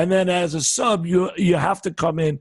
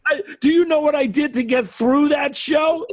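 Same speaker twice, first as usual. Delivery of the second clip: laughing; 7 semitones higher than usual. Real, not acted. Laughing while retelling.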